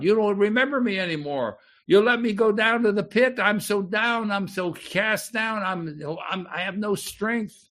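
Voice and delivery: anguished psalmist to God. Acted. Preacher voicing the psalmist's despairing prayer to God, pleading. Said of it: "Listen, he's talking to God".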